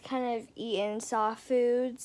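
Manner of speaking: fingers pressed against lips; slightly muffled through fingers; speaking with hand over mouth. Real, not acted. Seen 1: Hand slides from forehead down; fingers rest across lips while speaking.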